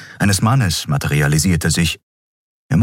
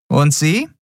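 guard asking; 11 semitones higher than usual. A narrator's reading. Guard turns to Keru.

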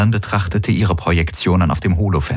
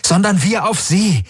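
much higher urgent realization; Galen, urgent; 14 semitones higher than usual. Acted. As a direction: explain fast before anyone fires. Galen erklärt aufgeregt. (Galen, drängend und hoch)

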